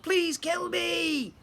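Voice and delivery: high, slow, loud howl; howling shout. Acted. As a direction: drag out a desperate begging shout. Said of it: "Grogber howled".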